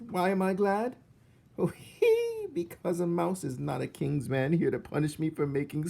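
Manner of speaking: high, loud giggling cook; laughing cook. Acted. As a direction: cackle through the speech as the cook.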